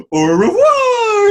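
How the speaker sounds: very high, loud drawn-out scream; mock French scream. Co-host imitates the chef grabbing the woman, screamed French. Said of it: "he's screaming that".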